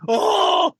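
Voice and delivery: high, fast fan chatter; mocking fans. Cohost mocking a band's frantic fans over tickets, high and fast. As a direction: rattle off the fans' panic. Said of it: "it's just like".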